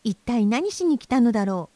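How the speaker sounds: high, bird-like voice, a bit appalled; tiny high bird voice, half disgusted, half astonished; amazed thrush. A narrator's reading. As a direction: chirp it out like a small bird staring in disbelief. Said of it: "少し呆れたように言いました".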